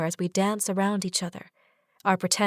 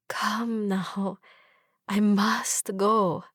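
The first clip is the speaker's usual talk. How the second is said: gentle reluctance; much slower than usual. Acted. Reluctant soft reply.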